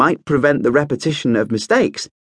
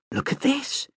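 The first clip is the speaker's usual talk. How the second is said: hushed, breathy, much softer and higher; breathed; 9 dB quieter than usual. A narrator's reading. Prince looks at a dragon drawing, breathing in awe. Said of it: "he breathed".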